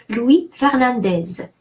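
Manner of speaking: "Louis Fernandez" slowly, sounding the final Z; Spanish surname pronunciation. Shown as a demonstration. Teacher naming the author, "Fernandez" said like in Spanish. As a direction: say "Fernandez" Spanish-style with its last Z heard. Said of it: "say it like in Spanish".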